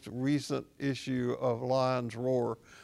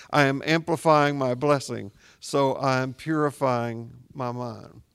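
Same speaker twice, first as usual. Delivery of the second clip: recited verse; 4 dB louder than usual. Shown as a demonstration. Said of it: "may I say".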